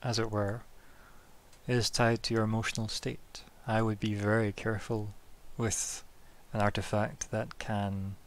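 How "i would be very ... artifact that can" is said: serious tone. Acted. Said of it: "very serious tone to her voice".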